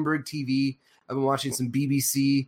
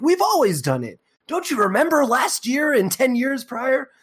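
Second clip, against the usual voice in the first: mock media voice; 9 semitones higher, 4 dB louder than usual. Mocking mainstream media claims.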